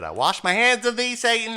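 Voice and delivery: pompous scripture-style farewell; mock biblical. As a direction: cast him out like a hammed-up preacher. Mock biblical dismissal of the driver.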